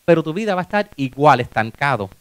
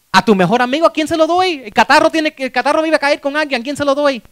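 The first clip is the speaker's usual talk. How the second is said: high, loud, flustered rush of questions; pitched up and pressing, hammed-up impatience; mock exasperation; 6 semitones higher, 5 dB louder than usual. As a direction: act out an overwhelmed helper pleading for an answer. God acted out as exasperated, hurried.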